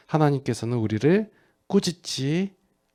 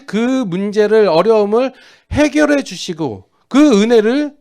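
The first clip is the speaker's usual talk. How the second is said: loud, high rhetorical questioning; preach; 9 semitones higher, 10 dB louder than usual. Real, not acted. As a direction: drive the question home to the congregation. Preaches at full force. (힘주어 외치는 설교조)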